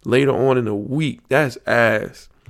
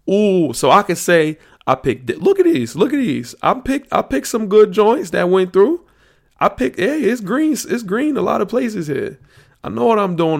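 much higher and louder, showing off; excited; 8 semitones higher, 4 dB louder than usual. Real, not acted. Bracket host showing viewers his picks, giddy high boasting. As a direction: crow about the winning picks, pitch way up.

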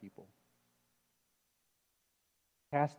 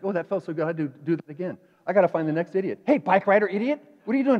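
blaming inner voice; 2 semitones higher, 6 dB louder, faster than usual. Retold or imitated. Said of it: "it's like".

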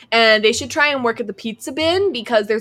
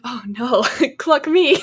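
mock dismay. Randy dismayed, laughing through it.

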